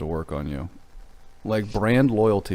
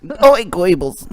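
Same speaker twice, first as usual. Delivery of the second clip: put-on drawn-out, higher Jewish accent; 9 semitones higher, 10 dB louder, much slower than usual. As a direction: stretch the name in a hammy Jewish accent. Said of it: "doing his name in a Jewish voice".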